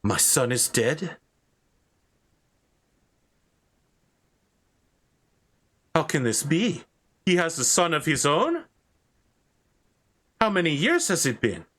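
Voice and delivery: put-on shocked old knight. Knight learning his son has died, shocked. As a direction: reel at the news of lost years. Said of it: "catches his hand on a branch".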